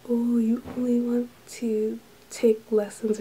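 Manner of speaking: mock ragging, drawn-out opening; slowly tease, imitating a guy's ribbing; imitated teasing. One guy ragging on another over English lessons, teasing. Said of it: "ragging on the other guy".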